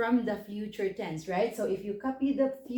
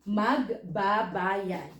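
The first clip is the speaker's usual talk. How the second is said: magbabayad slowly split as "mag, ba, bayad"; slow teaching demo of magbabayad; syllable by syllable; much slower than usual. Shown as a demonstration. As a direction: draw out magbabayad part by part. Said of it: "you copy the entire verb".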